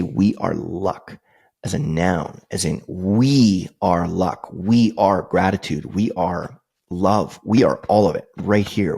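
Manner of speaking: each "We are" line drawn out very slowly; a heartfelt creed spoken line by line; slow and sincere. Retold or imitated. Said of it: "He wanted to say".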